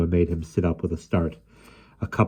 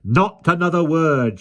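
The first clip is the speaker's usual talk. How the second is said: slow, loud, high spluttering nanny; slow furious splutter; spluttering anger; 10 semitones higher, 5 dB louder than usual. A narrator's reading. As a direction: splutter it out in fury. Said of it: "she spluttered".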